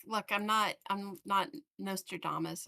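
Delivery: usual speaking voice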